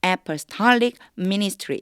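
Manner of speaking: apostolic ministry read slowly, stress on -stol-; stress late in apostolic. Shown as a demonstration. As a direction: lean on the back of apostolic. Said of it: "apostolic 할 때 뒤에 강세가 있어요".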